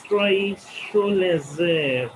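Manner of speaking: Drei Schulesser split with a pause between the words; split phrasing. Shown as a demonstration. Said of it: "make some pause in between".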